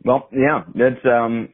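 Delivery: talking around candy; words round a bite of candy; mouth full. Real, not acted. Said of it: "sorry, I'm eating candy".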